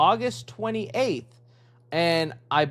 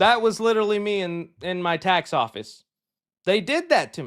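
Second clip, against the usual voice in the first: plain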